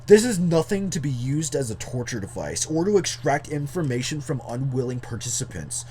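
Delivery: lightly voiced jock reading aloud; a hint of jock in the narration. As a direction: put on a touch of jock swagger. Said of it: "read this in the jock voice".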